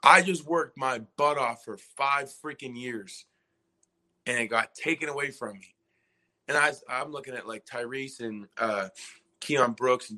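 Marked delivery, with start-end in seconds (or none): 0.0-5.7 whispered curse swelling into slow, pained protest; retold weeping outburst. Senior in the locker room realising it's over, retold weeping. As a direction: start under the breath, then lean hard and slow into the words. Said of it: "like, weeping".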